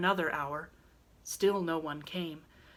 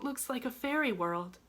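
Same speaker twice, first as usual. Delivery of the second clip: smiling to herself; 6 semitones higher than usual. A narrator's reading. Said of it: "smiling to herself".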